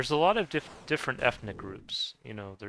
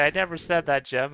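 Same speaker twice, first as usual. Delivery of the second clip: mock protest; 6 semitones higher, 6 dB louder than usual. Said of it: "I know Lotus would say".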